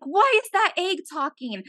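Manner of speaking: high-pitched frightened question; mock scream. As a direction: imitate a friend freaking out. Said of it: "Like, he screamed".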